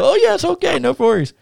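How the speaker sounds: exaggerated high-pitched reassurance; mock agreeable wrestler. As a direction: send up his sudden change of tune. Mocking the wrestler's sudden change.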